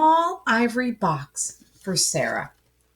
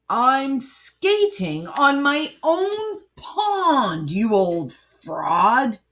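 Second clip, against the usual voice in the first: laughing defiance; 6 semitones higher, much slower than usual. Acted. Hero defies villain laughing.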